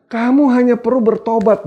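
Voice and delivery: high-pitched solemn proclamation; preacher declaiming God's words. Acted. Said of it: "Tuhan bilang".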